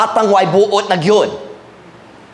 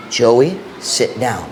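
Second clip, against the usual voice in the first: stern father; 5 semitones lower, much slower than usual. Retold or imitated. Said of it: "But you know what it was?".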